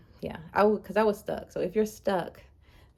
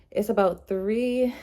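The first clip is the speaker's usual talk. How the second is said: out of breath; 4 semitones higher, 4 dB louder, slower than usual. Real, not acted. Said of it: "I'm out of breath, sorry".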